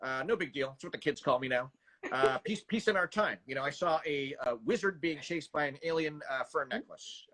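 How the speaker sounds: lightly voiced offhand movie-star impression, slightly low; Robert Downey Junior. Shown as a demonstration. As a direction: toss it off like a self-assured film star. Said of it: "my Robert Downey Junior".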